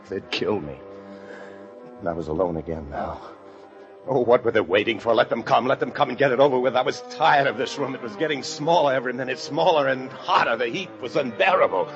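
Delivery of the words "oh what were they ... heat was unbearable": agitated, raised voice building to loud desperation; mounting panic. Acted. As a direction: grow frantic as the room closes in. Trapped man overcome by heat.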